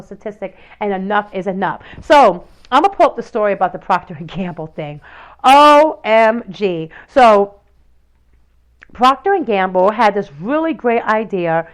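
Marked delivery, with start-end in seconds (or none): 5.4-6.9 each letter spelled out slowly and loudly; drawn-out OMG. Real, not acted. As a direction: lean on every letter in disbelief. Reacting to the Procter and Gamble story.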